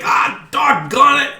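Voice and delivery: high, loud goblin cry; exasperated goblin. Acted. Goblin hit by a volley of weapons, loud exasperated cry. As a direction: cry out slowly in goblin dismay. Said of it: "and he's like".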